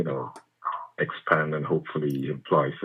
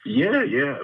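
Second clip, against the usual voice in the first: squeaky yeah; 4 dB louder than usual. Acted. Caller's voice jumps up.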